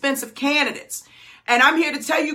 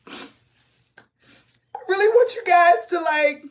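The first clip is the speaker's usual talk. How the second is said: choked up; 2 semitones higher, slower than usual. Real, not acted. Coach overcome with emotion, long pauses.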